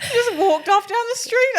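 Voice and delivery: high slow laughing retelling; giggling aside. Real, not acted. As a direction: stretch it out while laughing.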